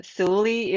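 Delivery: "Suli" said as SOO-lee; mispronounced name. Shown as a demonstration. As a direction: say "Suli" with an oo, no w sound. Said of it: "one of the main one I get called".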